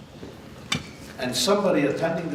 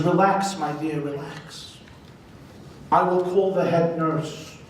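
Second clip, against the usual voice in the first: calm him gently like a grandmother; tender old woman; 3 semitones higher than usual. Acted. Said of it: "caresses him tenderly on his cheek".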